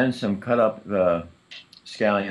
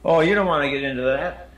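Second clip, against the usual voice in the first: laughing; 8 semitones higher than usual. Real, not acted. Confessing his yearly chocolate treat.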